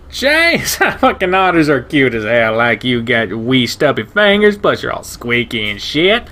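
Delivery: crank the pitch way up and bark it out with delight; brash shepherd guy. Acted. Ryan mocking the otter.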